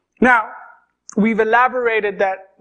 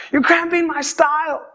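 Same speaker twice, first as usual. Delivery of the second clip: pitched-up petulant repeat to himself; sulky teen grumble; 6 semitones higher than usual. Retold or imitated. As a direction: alone in his room, muttering about dad: mild pouty complaint. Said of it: "march in my room, like, go around in circles and be like".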